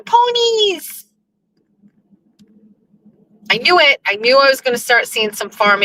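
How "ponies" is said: high, delighted squeal at sheep; excited squeal. Real, not acted. Driver spotting sheep on a country road, squealing with delight. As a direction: squeal with joy at the animals. Excited at seeing farm animals.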